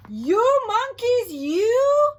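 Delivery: high, loud, slow scolding; scolding peddler. Acted. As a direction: wag a finger and scold. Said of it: "he said, shaking a finger".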